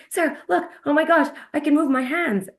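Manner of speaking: retelling a friend's thrilled outburst, imitated excitement; excited. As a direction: squeal it like you just got your hands back. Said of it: "But she was so excited".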